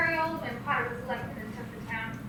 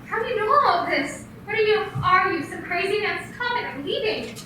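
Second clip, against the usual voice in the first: alarmed; 4 semitones higher, 5 dB louder than usual. Acted. Stranger recites her private life.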